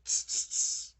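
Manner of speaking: loud hissed tss, tss, tss; mocking monkeys clicking back; monkey tsk. A narrator's reading. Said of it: "the monkeys ... said".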